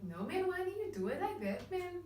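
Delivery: high singsong Cape Town lilt, annoyed; singsong Cape Flats accent. Retold or imitated. Imitating her Cape Town nagging singsong. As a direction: sing the nag up high like a Cape Town mom. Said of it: "then we sing like that".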